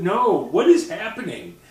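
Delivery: usual speaking voice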